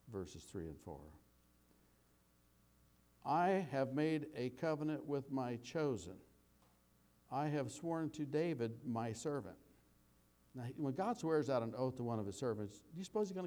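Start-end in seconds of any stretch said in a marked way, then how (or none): 3.2-9.6 slow, measured reading of the psalm; scripture reading. Acted. Pastor reading the psalm to his congregation, slow and measured. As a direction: read it out like scripture, unhurried.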